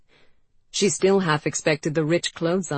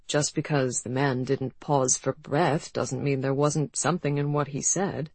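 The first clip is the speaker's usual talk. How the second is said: virtuous. Acted. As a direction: sound prim and virtuous. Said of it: "said Bay virtuously".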